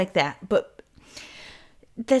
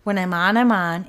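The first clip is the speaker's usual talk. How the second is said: building louder on the second "on"; emphatic, switched on; 4 dB louder than usual. Shown as a demonstration. Host explaining her switched-on state, emphatic and louder. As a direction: punch "on" with more volume. Contrasts being on with off.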